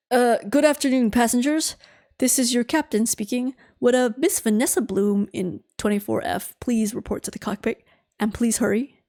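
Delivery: captain voice. Acted. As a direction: play the captain over the PA. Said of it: "in his captain voice".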